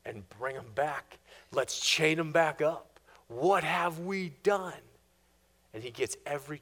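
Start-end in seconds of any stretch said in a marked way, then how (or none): 0.1-4.8 a king dragging out a bitter question; Pharaoh's voice. Acted. Preacher voicing Pharaoh ordering slaves back, slow rueful tone.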